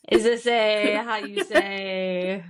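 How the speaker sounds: slow, drawn-out mock Slavic accent. Co-host echoing Tony's line, mock Slavic accent. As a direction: playfully imitate a Slavic accent, slowly.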